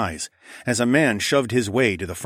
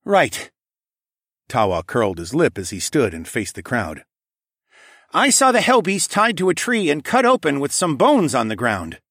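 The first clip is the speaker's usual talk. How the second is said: prince's voice; 6 semitones higher, 5 dB louder than usual. Acted. Prince Tawa testifies.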